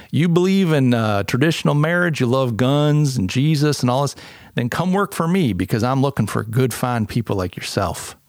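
a bad, self-mocking Southern drawl. Goofing on a Southern boss inviting like-minded workers, bad Southern drawl. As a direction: ham up a Southern business owner. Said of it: "ersatz Southern, uh, drawl".

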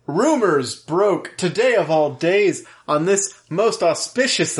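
lofty, solemn prophet voice; mock biblical prophet. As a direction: proclaim it like an old prophet. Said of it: "Am I sounding like an old prophet?".

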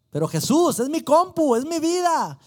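high, loud desperate plea to Jesus; a cry of it's my whole life; pleading protest. Retold or imitated. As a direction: beg as if losing everything. Arguing with Jesus in prayer.

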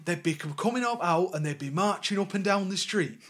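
lively put-on Lancashire voice; Burnley accent. Reminiscing as the interviewee about marches, Burnley accent. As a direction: play up a Northern English interviewee. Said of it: "This is fantastic voice work".

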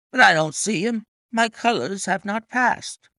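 high, anxious protest; agitated cry. A narrator's reading. Colonel searching for his horse's colours, agitated. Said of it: "cried the colonel in great agitation".

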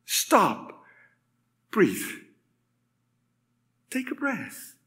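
soft single words with long pauses; calming God's voice. Acted. God telling the breathless one to stop, calming. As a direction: hush it down to a near murmur. God calms the overwhelmed speaker.

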